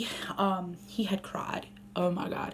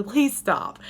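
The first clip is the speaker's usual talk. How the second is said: firm, louder "please stop"; abrupt plea; 5 dB louder than usual. Retold or imitated. Mom to crying toddler, abrupt and firm. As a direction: snap it short but not rude. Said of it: "just abruptly".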